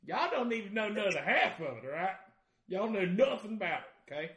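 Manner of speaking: hammed-up Southern redneck, loud and high-pitched; Southern redneck accent. Showing off his Southern accent at a Minnesota party, loud and hammed-up. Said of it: "my Southern accent, redneck at parties".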